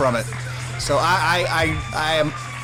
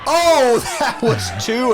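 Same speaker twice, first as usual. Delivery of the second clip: laughing through the call; amazed laugh at the near fall; laughing surprise; 5 semitones higher than usual. Real, not acted.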